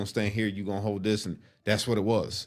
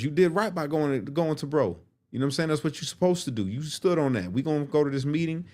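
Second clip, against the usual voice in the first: Dre's voice; 5 semitones higher than usual. Retold or imitated. Dre continues advising.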